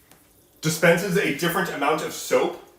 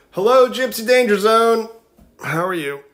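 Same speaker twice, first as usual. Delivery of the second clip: high, loud cheerful hello; excited greeting; 8 semitones higher, 6 dB louder than usual. Real, not acted. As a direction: greet the newcomers with a burst of joy. Greeting an incoming raid.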